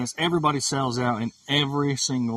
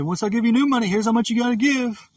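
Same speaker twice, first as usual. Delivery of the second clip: quoting God; 10 semitones higher, 5 dB louder than usual. Retold or imitated. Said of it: "he's already told me".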